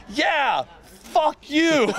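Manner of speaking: high, punchy mock snap; hammed-up brush-off; mock defiant retort. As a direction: spit it back like a fearless uncle. Uncle retorts, retold.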